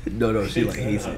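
whispered aside. Real, not acted. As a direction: lean in and whisper it.

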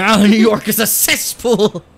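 high, loud, slow mock outburst; hammed-up rant. Player joining a friend's mock rant on New York, loudly. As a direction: cry it out with overblown disgust.

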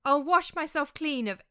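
despairing wail. A narrator's reading. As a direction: beg to be forgiven, slowing. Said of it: "I wailed in desperation".

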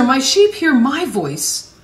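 slow reading leaning on "voice"; deliberate scripture reading with weight on "voice"; emphasis on VOICE. Real, not acted. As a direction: stretch the phrase and stress "voice". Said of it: "Why the emphasis on the word voice".

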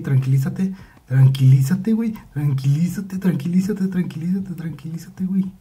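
urgent repeated plea climbing in pitch; panicked calming. Real, not acted. Scared player urging calm in game.

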